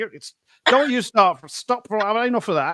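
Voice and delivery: put-on high-pitched northern English accent. Describing Naomi from Nottingham, then doing her voice: imitating Naomi's northern accent. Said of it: "that northern".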